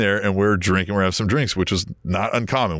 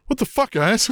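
mock outraged; 13 semitones higher than usual. Radio guy confronting them.

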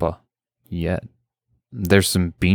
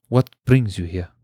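silky voice. A narrator's reading. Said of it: "Jampa's silky voice".

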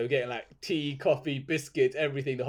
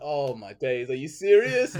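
incredulous outrage; 6 dB louder, slower than usual. Retold or imitated. To the optician refusing lenses, loud shocked disbelief. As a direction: blurt it out, stunned and annoyed.

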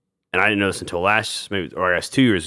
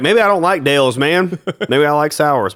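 imitating sour fans; 8 semitones higher, 6 dB louder than usual. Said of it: "They're like".

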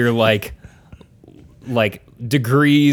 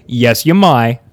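louder, amused take with an Australian "may"; Australian-sounding accent; 6 dB louder than usual. Acted. Host retrying the permission to speak, Australian-sounding accent. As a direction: stretch "may" toward "my" like an Australian, laughing. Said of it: "Sounds like Australian".

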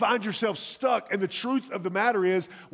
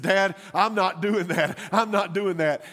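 laughing son refusing; 3 dB louder than usual. Retold or imitated. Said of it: "he said".

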